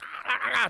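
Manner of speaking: short repeated cries, acted out; panicked yelps. Imitating a struggle with attacking wolves.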